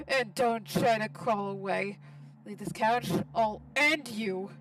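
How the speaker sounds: slow, deliberate menace; menacing threat. Acted. Karen warning Gregor not to crawl away, slow and menacing. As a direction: spell out the threat word by word.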